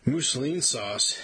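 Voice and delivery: put-on slow, slurred drunken words. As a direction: slur it like a tipsy boss. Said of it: "he slurred".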